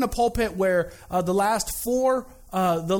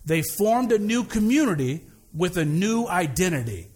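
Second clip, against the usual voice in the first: speaking through a face mask; muffled mask voice; muffled behind a mask; 3 semitones lower than usual. Real, not acted. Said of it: "it's muffled behind the mask".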